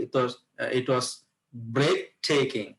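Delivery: slow, "breathtaking" set apart after a pause; pause, then lean on the first syllable of "breathtaking"; stress on breathtaking. Shown as a demonstration. Teacher models an answer about a trip, stress on "breathtaking". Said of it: "একটু stress দিব".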